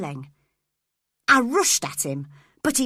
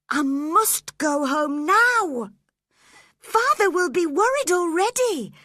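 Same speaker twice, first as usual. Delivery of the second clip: anxious plea; 10 semitones higher, 5 dB louder than usual. A narrator's reading. Cathy pleading to go home.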